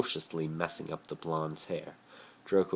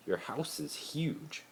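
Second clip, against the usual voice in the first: high, slow, amazed; awed; 11 semitones higher, 3 dB quieter, slower than usual. A narrator's reading. Harry tells Draco about his huge house, awed. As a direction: marvel at the size of it.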